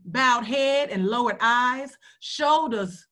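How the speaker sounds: measured poetry recitation with pauses between lines; deliberate, rhythmic poem delivery. Acted. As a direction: recite it line by line, letting key words stretch. Recites a poem from memory or page.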